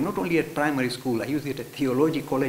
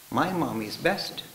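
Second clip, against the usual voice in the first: devoted; slower than usual. Shown as a demonstration. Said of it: "Say with all the love and devotion".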